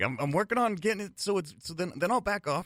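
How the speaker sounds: high, loud mock Irish accent. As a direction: throw on a loud over-the-top Irish accent. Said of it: "He's like".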